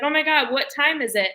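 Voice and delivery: hammed-up eager rabbi; mock excited rabbi. Rabbi voiced mockingly.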